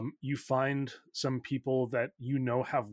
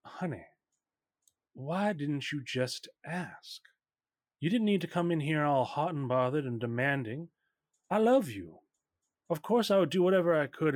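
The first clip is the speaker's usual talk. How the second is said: honeyed mother, with long pauses; lightly voiced theatrical mother. Mother offers help for estranged husband, lightly theatrical mother. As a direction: lightly play a wounded, self-dramatizing mother.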